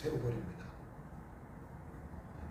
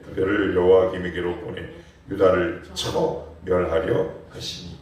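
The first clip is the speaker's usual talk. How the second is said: scripture reading; 7 semitones lower than usual. Acted. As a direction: read the verse with weight. Reads scripture verse aloud. (엄숙한 성경 낭독)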